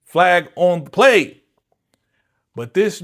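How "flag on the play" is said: louder, slow, deliberate; slow booming referee call; emphatic referee call. Retold or imitated. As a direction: call the penalty like a ref.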